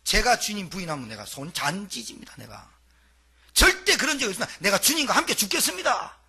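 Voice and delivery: Peter's fervent vow. Retold or imitated. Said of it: "온갖 몸 다 흔들고".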